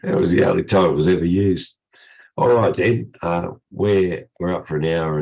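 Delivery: croaky voice from a cold; hoarse, croaky cold voice. Real, not acted. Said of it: "thanks for putting up with my croaky voice".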